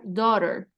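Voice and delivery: daughter as DO-rer, falling at the end; pronunciation demo. Shown as a demonstration. Teacher confirming how it sounds, careful model. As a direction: model daughter as two simple syllables, DO-rer. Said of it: "Así es como va a sonar".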